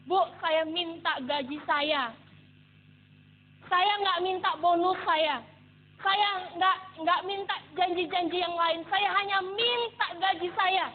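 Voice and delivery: slow, deliberate demand; insistent retold plea. Employee asking the boss for unpaid salary, insistent. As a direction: press each request firmly, word by word.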